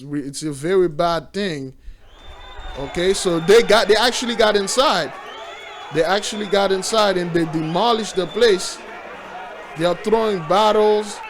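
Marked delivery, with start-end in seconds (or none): 2.8-11.2 louder, calling out what he sees; excited shout. Real, not acted. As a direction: shout it out, worked up by the scene. Excited commentary on crowd storming.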